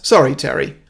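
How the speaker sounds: leader's quick apology. Acted. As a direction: toss an apology to the victim. Leader apologises, then the group echoes.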